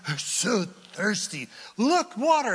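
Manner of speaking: parched, then a high excited cry; thirsty crowd spotting water. Acted. Thirsty Israelites seeing water, excited high cry. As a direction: spot the water and shout with joy. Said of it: "So they're like".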